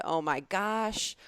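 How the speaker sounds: slow, stretched oh my gosh; drawn out. Shown as a demonstration. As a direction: hold the vowel out. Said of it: "held the ah out for a while".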